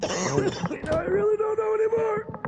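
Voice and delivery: coughing through the words; hoarse, coughing fit voice. Real, not acted. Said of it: "why are you coughing so much".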